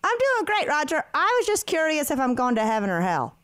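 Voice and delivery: bright high customer voice; fake-cheery caller; chipper prank caller. Prank call to Roger.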